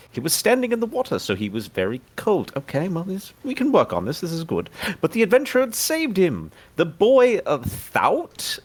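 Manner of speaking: put-on a faint British lilt reading a child's note; game character reads a boy's story in British accent. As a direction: read it out with a touch of British. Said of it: "before I read this in a British accent".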